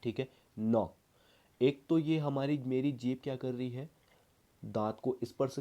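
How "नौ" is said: नौ said alone, air through the nose; teacher sounds out नौ clearly; nasal demo. Shown as a demonstration. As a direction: model the word नौ with a nasal start. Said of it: "जैसे मैं नौ कहूँ".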